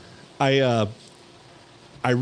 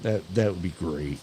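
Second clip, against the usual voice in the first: Bill Lumbergh; 4 semitones lower, 5 dB quieter than usual. Retold or imitated. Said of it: "Bill Lumbergh style".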